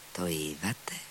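a low, hushed first "Το είδατε; hushed question. A narrator's reading. Captain, beside himself, asks Alyosha under his breath. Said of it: "τσίριξε χλωμός και εκτός εαυτού".

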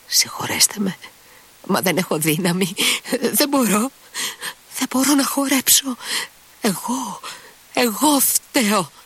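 high, helpless, begging forgiveness; tipsy distressed Grushenka. A narrator's reading. Drunk Grushenka apologises to the chorus, high and pleading.

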